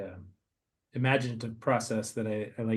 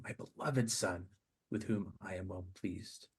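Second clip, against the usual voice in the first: voice of God; 3 semitones lower, 8 dB quieter, slower than usual. Acted. Voice of God in meditation.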